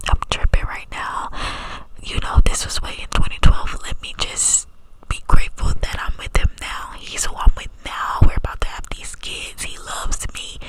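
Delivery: cupped hand whisper, close to the mic. Real, not acted. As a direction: whisper through cupped hands. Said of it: "I'm trying to do the cup whispers".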